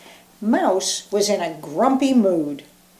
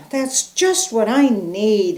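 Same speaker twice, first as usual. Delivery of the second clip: groaning. Acted. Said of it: "he groaned".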